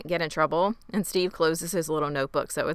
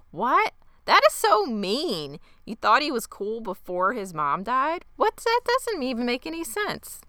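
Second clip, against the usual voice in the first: high-pitched, incredulous retort; appalled disbelief; 6 semitones higher than usual. Retold or imitated. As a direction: retell your outrage in rising disbelief. Host retells her appalled reaction.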